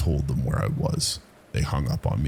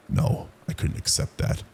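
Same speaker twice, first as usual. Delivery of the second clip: plain reading voice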